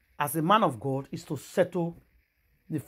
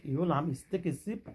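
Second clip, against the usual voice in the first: ordinary talk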